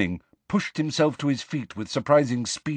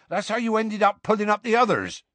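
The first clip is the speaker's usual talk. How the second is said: Hagrid scolding; 10 semitones higher, faster than usual. Acted. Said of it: "Hagrid scolding continues".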